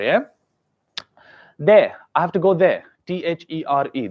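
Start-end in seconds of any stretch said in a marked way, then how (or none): 1.6-2.8 "there" ending on a vowel, R silent; British, no R. Shown as a demonstration. Teacher models words ending in R, "there" without R. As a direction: drop the R in "there". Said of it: "those words which end with R".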